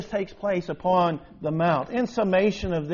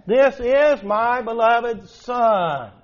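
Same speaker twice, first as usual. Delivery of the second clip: voice of God; 3 dB louder, slower than usual. Acted. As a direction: intone it as God's voice from the cloud. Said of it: "we have it recorded for us in the text".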